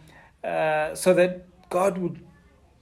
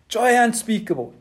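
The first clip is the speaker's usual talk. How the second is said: laughing repeat; 5 semitones higher than usual. Real, not acted. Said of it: "laughing repeat".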